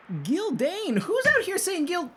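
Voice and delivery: very high goofy soldier; twin brothers' voice. Acted. Twins asking who named their country, high indignant voice. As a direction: call out high in disbelief. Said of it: "And they go".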